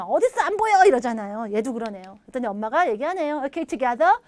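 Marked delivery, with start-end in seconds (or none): 0.0-0.8 put-on higher, louder kid's whine; mock a child who can't find it; complaining child. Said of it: "하면 엄마가 얘기해주면".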